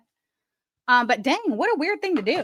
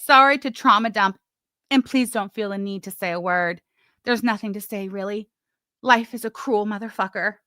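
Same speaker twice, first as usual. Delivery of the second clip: hammed-up tragic reading of a message; melodramatic reading. Vlogger reads the message aloud in a mock melodramatic tone. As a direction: overplay it like a soap opera confession. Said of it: "I read it very, very melodramatic-like".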